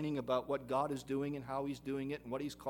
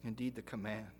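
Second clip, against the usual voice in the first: prayer. Acted. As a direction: pray humbly and gently. Leads a prayer.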